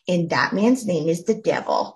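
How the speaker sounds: put-on dramatic Southern accent, preacher style. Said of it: "you have to say it in a Southern accent like that".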